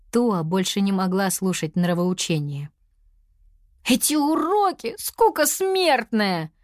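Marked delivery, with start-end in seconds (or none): 3.8-6.5 high, heated complaint with a slow drawn-out scoff; a kid working herself up over boring lessons; mildly hammed-up outburst; getting worked up. A narrator's reading. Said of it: "распалялась она".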